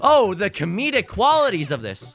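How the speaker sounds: high, loud wheezing laughter; laughing so hard you can barely talk; helpless laughter. Real, not acted. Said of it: "I'm kneeled over laughing".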